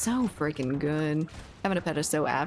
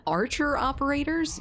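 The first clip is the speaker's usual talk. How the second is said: "Archer operators?" rising high in disbelief; incredulous echo; 9 semitones higher than usual. Real, not acted. Streamer echoing a chat request in disbelief. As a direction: repeat the chat line as if you can't believe it.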